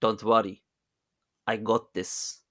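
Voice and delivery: creepy mystic's mock Russian accent, measured; improved mock Russian accent. Creepy mystic reassuring a desperate mother, mock Russian accent. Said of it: "Oh, that was better".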